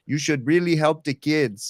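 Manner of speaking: light imitation of a Mexican accent; a hint of a Mexican accent, pleading. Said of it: "in his Mexican accent".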